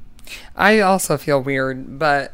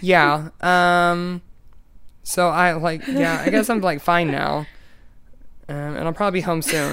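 lightly voiced drugged-up nonchalance; imitating someone doped up; 3 semitones higher than usual. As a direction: imitate a dazed patient playing it casual. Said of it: "so, like, doped up on drugs".

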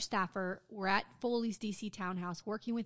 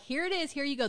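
higher-pitched, singled-out quote; breezy handover; 4 semitones higher than usual. Retold or imitated. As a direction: pass it off, imitating the staffer. Retells staffer handing over the scandal.

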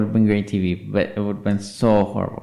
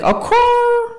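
Laganja; 4 dB louder than usual. Retold or imitated. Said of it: "That's how she ended her sentences".

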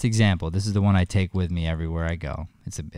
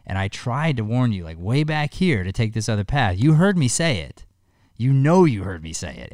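raised, louder voice of a stern, loving God; God warning; 3 semitones higher, 3 dB louder than usual. Acted. A father telling his son about God, in a mildly louder, stern warning voice. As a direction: play God scolding Matt for ignoring every hint. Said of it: "he's gonna go".

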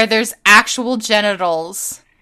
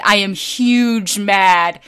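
mock-grand declaration; slower than usual. Real, not acted. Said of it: "but I am real mad".

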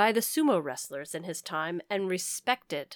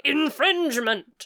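ghost yelling; 6 semitones higher, 3 dB louder, slower than usual. Retold or imitated. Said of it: "a ghost came up to me and was like".

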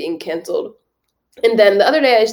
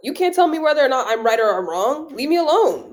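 higher-pitched indignant challenge; defiant retort; 5 semitones higher than usual. Retold or imitated. Acts out defiant retort to critics.

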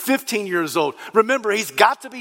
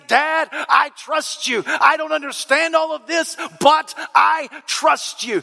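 tearful son; 6 semitones higher than usual. Acted. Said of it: "as if to say".

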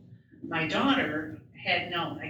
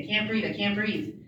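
panicky; 3 semitones higher than usual. Retold or imitated. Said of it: "I'm all panicky".

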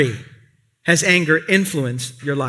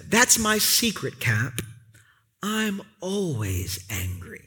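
very calm; 7 dB quieter, slower than usual. Retold or imitated. Bruce Banner calmly answers Captain America, hushed and slow. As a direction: let it fall away quietly, calm menace. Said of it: "very calmly".

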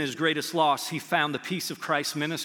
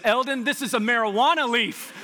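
louder and higher, breaking into laughter; laughing punchline; 7 semitones higher, 6 dB louder than usual. Retold or imitated. Pastor telling the church his grandpa's belt buckle story, laughing.

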